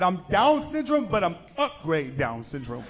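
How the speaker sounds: a hint of a slurred brother voice; brother's voice. Brother's quote in joke setup.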